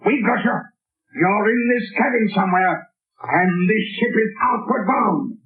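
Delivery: corner him and dare him; gloating challenge. Acted. Captain gloats, Shadow trapped.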